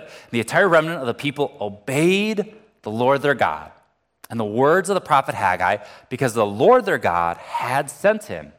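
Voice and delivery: measured, solemn Bible reading; scripture reading. Acted. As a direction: read the verses like a pastor from the pulpit. Reads Haggai passage aloud.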